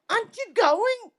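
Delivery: high, puzzled mock question. Mum asking her kids, high and puzzled. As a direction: ask it up high, all innocent. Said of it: "and I'm like".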